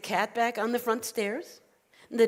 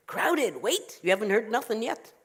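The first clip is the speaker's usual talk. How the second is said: indignant retort. Acted. Old woman answers rabbi's remark on crowding, indignant. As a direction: lift it and throw the word back.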